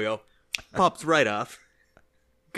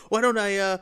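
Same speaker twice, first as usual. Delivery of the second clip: raised, higher, sneering, slowing at the end; mock the compliment bitterly; mock angry sarcasm; 7 semitones higher, 4 dB louder than usual. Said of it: "He gets all upset".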